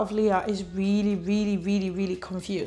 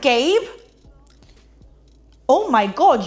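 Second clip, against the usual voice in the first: relieved cry; 5 semitones higher, 7 dB louder than usual. Retold or imitated. Leah finds Gabe alive after panic.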